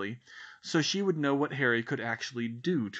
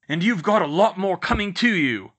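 much louder and higher, furious yell; roar; 7 semitones higher, 9 dB louder than usual. A narrator's reading. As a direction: bellow the threat at him. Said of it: "Uncle Vernon roared".

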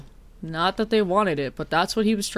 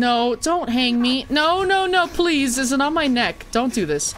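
panicked pleading; 5 semitones higher than usual. Pretend. Begging not to be hanged.

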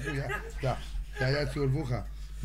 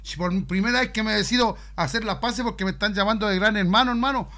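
loud; 5 dB louder than usual. Acted. Pushing friend loudly on the phone.

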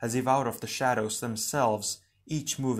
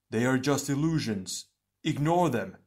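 slightly raised, insistent voice; urgent reassurance; 2 semitones higher than usual. Acted. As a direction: urge your comrades firmly. Comrade urges team to ignore shadows.

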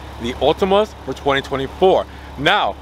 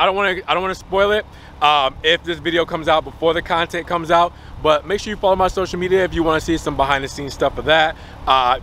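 normal talking voice

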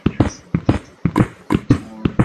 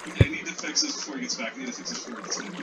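nervous hurry; 9 semitones lower, 8 dB quieter, much faster than usual. Real, not acted. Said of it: "I'm freaking out".

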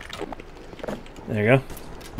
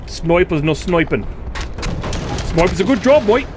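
bad Australian accent. Gamer mocking the sniper in a bad Australian accent. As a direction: attempt a hammy Australian twang. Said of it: "I just can't do Australians".

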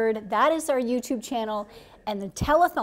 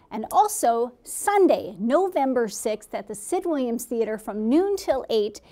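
announcer read. Acted. Reads promo segment on air.

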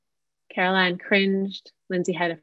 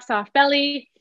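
higher, light inviting cues; yes tone; 6 semitones higher than usual. Shown as a demonstration. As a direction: guide them gently and melodically. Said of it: "Let's do it again".

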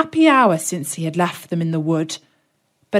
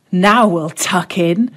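lightly voiced eager boy, slow; a hint of a greedy boy about to tuck in; boy eyeing a cake house, lightly voiced; Hansel. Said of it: "said Hansel".

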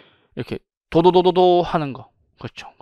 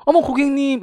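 estate agent; 8 semitones higher than usual. Acted. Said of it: "이러면서".

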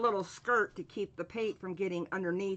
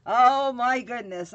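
startled exclamation; 2 semitones higher, 10 dB louder than usual. Real, not acted. Reacting to the dog, squirrel.

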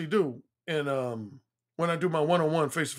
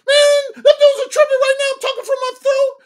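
very high, strained throat voice; high-pitched, stressed complaining; talking from the throat; 7 dB louder than usual. Shown as a demonstration. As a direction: squeeze it up into your throat, high and loud. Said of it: "makes your voice go up like this".

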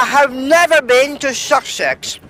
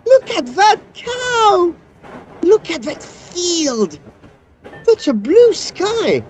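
excited gushing; 4 semitones higher than usual. Acted. Excited at countryside from train.

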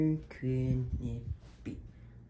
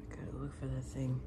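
whisper; 10 dB quieter, faster than usual. Acted. Creeping through the house, a sneaking whisper. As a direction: whisper so the monster can't hear.

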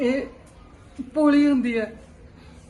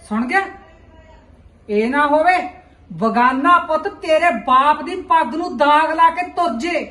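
loud warning; 3 semitones higher, 6 dB louder than usual. Acted. Mother warns daughter about family honour.

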